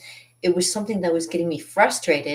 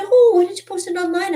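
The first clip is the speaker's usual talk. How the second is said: lightly voiced, high, eager friend; a touch of a cheerful friend; imitating a friend; 8 dB louder than usual. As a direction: chirp the suggestion up high and loud. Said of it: "And somebody said".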